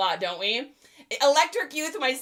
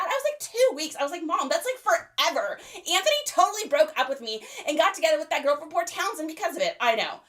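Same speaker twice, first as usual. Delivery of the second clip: put-on valley girl teen; 3 semitones higher than usual. Eighties teen chatting with her best friend on the phone. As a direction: gossip like a bored valley girl.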